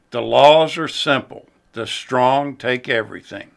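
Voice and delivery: grand storybook narration, lightly done; epic fantasy narrator. Retold or imitated. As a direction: read it like a film's opening narrator. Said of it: "The opening narration goes like this".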